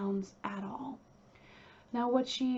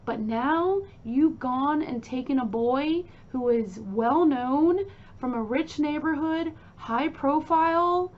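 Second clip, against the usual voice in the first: imitating an angry scolding, louder; pissed-off mother; 3 semitones higher, 6 dB louder than usual. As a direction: tell off a son in a loud retold rant. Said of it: "'cause Louise is pissed".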